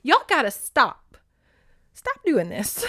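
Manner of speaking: begging the authors, half laughing; panicked real plea to the novel's authors. Real, not acted. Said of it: "they make me panic".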